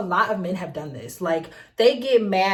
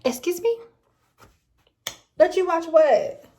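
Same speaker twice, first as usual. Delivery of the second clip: slow, higher, outraged disbelief; incredulous; 7 semitones higher than usual. Real, not acted. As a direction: drag out the words, appalled. Reacting to a rude request.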